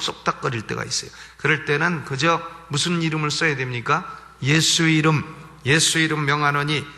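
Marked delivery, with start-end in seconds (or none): 4.4-6.8 mild exorcist's command; commanding in Jesus' name. Retold or imitated. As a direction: cast the spirit out with authority. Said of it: "명령을 해요".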